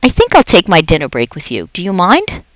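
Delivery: a jolly night janitor chatting to a pet; upbeat, chatty custodian; Aldo the cheerful janitor. Acted. Aldo at dinner break.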